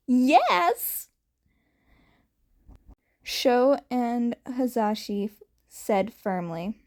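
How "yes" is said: loud high yes; firm joint yes. Acted. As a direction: answer together, firmly.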